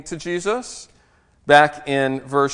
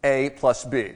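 slow formula; slower than usual. Shown as a demonstration. Pastor teaching math geeks a formula: slow and deliberate. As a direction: spell the formula out slowly. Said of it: "Here's a formula for you".

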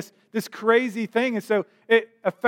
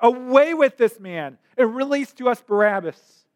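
mildly raised voice of a demanding crowd; raised crowd cry; 3 semitones higher than usual. Retold or imitated. Crowd demanding Barabbas from Pilate, mildly shouted. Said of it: "they shouted out, they cried out".

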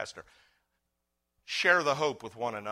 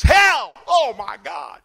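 high, loud startled yell; mock shocked shout; 10 semitones higher, 14 dB louder, slower than usual. Coworker's imagined shocked reaction, shouted. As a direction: blurt it out in shock. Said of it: "what he's really saying is".

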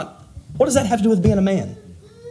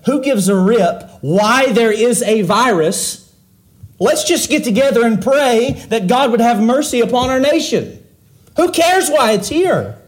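pitched well higher, scoffing, who-cares tone; dismissive mock church voice; 6 semitones higher, 3 dB louder than usual. Preacher mocking churches that shrug off why the virus came, dismissive and higher. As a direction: sneer it off like a careless congregation.

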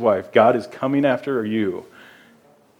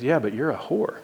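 voicing God; 6 semitones higher than usual. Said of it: "God sometimes looks at us and says".

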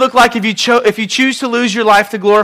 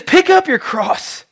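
solemn quote; 9 semitones higher, much slower than usual. Acted. Preacher repeats Jesus' command.

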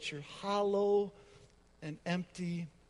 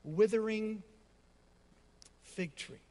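slow, drawn-out roar, higher and louder; preacher voicing Jesus as a roaring lion; 6 semitones higher, 4 dB louder, slower than usual. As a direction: roar it like a lion demanding fruit. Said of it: "he roars".

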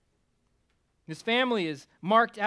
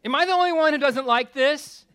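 louder, higher, building preacher's fervor; preaching at full force; 4 semitones higher, 6 dB louder than usual. Acted. Preacher confessing to his folks, loud and fervent. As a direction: pound it out to the congregation.

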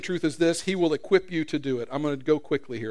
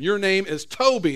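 louder, commanding insistence; stern owner; 5 semitones higher, 6 dB louder than usual. Acted. Owner overruling the captive, loud and hard. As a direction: refuse to accept his answer. Owner beating new name in.

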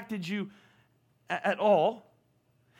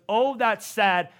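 slow, firm, resolved sadness; louder and slower, sadness turning into resolve; moved to act; 4 dB louder, much slower than usual. Shown as a demonstration. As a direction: say it like it compels you to do something. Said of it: "I want something inside of you that goes".

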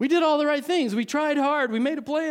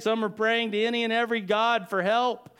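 normal talking voice

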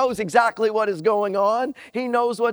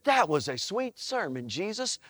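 sarcastic; 3 semitones lower, 7 dB quieter than usual. Retold or imitated. Mock sarcastic thanks to Jesus.

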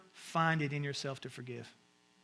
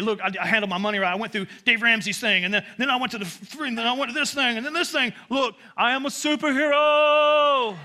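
mock boasting; 5 semitones higher, 7 dB louder than usual. Self-righteous Christian listing achievements, building to a loud mock boast. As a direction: show off, climbing to a superhero proclamation.

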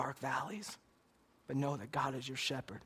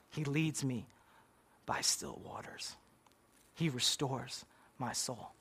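a hint of a humble old pastor reading haltingly; halting pastor's recital. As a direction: stumble through the verses as if choked up. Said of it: "He stuttered every once in a while".

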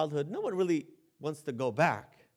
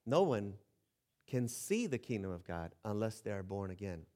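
quiet, lower, solemn words of Jesus; solemn quote; 8 semitones lower, 8 dB quieter than usual. Retold or imitated. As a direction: say it low and grave, as Jesus.

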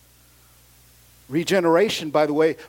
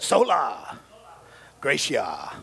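showy demonstration with some attitude; 5 semitones lower, slower than usual. Shown as a demonstration. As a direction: give it feeling, leading the room. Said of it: "like, with some attitude".

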